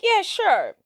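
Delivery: nervous acceptance. Retold or imitated. Kate answers John's offer to drive her home, high mock nervous. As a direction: pitch the agreement way up, mock nervous.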